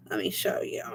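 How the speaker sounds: soft secret whisper. Real, not acted. Whispering to viewers before the pendulum demo. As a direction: breathe it out like a secret.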